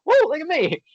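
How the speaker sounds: high-pitched playful whoop; showy, self-mocking excitement; mock-excited bragging. Veteran joking about reaching the White House line, mock-excited. Acts out own bragging reply.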